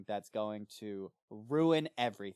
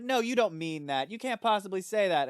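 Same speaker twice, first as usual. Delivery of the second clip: incredulous Basil; 9 semitones higher, 6 dB louder than usual. Retold or imitated. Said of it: "he's like".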